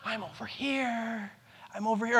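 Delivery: soft hidden whisper. Retold or imitated. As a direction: whisper so the kids barely hear. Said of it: "I might make a noise or whisper".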